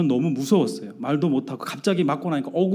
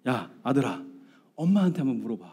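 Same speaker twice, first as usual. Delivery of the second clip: quieter, offhand dismissal; annoyed brush-off; 2 semitones lower, 4 dB quieter than usual. Retold or imitated. Dad dodging son's math question, annoyed brush-off. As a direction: wave the child away, feigning annoyance. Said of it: "딱 잡아떼고 귀찮다고 하면서".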